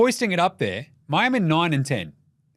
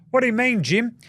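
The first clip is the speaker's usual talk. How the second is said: imagined questioner; 7 semitones higher than usual. Acted. Imagined listener asks him.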